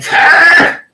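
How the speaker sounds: very high, loud imitated call; mock shout. Host reads out Tim's message, high mock shout. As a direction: yell the name back, pitched right up. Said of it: "And Tim saying".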